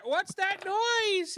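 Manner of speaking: very high, drawn-out call; startled overheard voice. Acted. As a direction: call out high and slow, alarmed by a noise. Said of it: "Would you hear".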